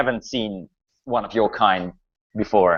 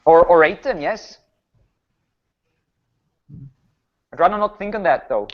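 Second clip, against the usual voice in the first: higher-pitched, hesitant, stammering baron; worried village baron; 5 semitones higher than usual. Acted. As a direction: play a troubled baron fumbling for words.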